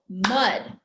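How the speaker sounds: mud as one quick beat; one punched syllable, "mud"; quick short word. Shown as a demonstration. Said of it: "it's a quick short word".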